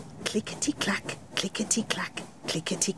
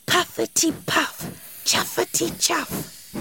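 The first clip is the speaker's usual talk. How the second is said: train puffing; 9 semitones higher than usual. Acted. Train heard through window.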